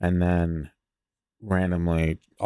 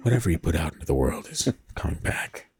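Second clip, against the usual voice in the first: soothing nature voice. Pretend. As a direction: say it like a relaxation tape. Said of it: "nice nature noises as you say that".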